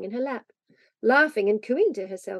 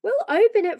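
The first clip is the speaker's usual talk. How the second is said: put-on raised, higher boyish call; 11 semitones higher, 6 dB louder than usual. A narrator's reading. Davy calls to little Phronsie, voice raised high. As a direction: call it across the room. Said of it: "called Davy".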